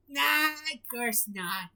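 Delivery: slow, calm reassurance; reassuring. Acted. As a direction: soothe the worried patty. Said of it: "reassured Sandy".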